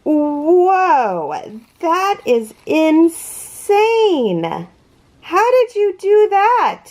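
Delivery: high, stretched-out amazement; wowed, voice climbing high; astounded. Real, not acted. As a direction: marvel in real disbelief. Astounded by the crochet work.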